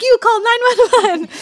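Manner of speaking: high, loud, robotic order; mock first-aid dummy drill; training-video command. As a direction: bark it like a CPR video instructor. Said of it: "like the training video".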